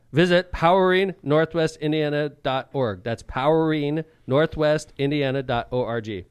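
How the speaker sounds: slow ad read. Acted. Slow web address read.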